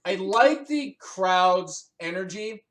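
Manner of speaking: slow, drawn-out quote of a wrestler; imitating Paige. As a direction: stretch the phrase out slowly. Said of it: "That's what Paige says to Del Rio".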